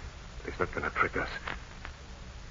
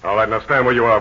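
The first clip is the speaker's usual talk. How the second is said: ordinary talk, nothing marked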